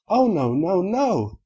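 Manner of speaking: high, insistent unicorn voice; Rarity protesting. Acted. Rarity refusing to let Applejack forget, high and emphatic. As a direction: sing out the denial, way up high.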